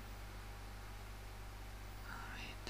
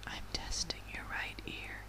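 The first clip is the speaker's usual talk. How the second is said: whisper in right ear; 3 semitones lower than usual. Acted. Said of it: "I'm gonna whisper into your ear".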